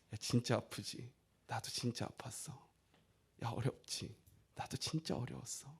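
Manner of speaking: hushed, low, intimate comforting; tender empathy. Retold or imitated. Jesus telling the suffering he has been through it, hushed and tender. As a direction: speak very softly and low, sharing the hurt.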